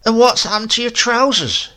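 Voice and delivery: high, loud indignant scold; scolding grandmother. A narrator's reading. Grandmother scolds Silas, high and loud. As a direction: demand an answer about his trousers.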